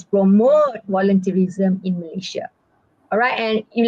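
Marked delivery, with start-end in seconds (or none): 0.0-2.5 "promote" lengthened, the rest left plain; stress on promote. Shown as a demonstration. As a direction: lean on "promote" at the start. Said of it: "that's the emphasis".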